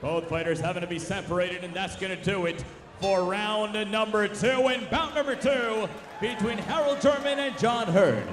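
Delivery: fast, punchy ringside call; play-by-play. Real, not acted. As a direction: call the action as it happens. Live play-by-play boxing commentary.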